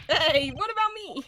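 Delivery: loud, high acted whine; indignant protest. Left-behind character calling after the others, loud indignant protest. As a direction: call out high, feeling left out.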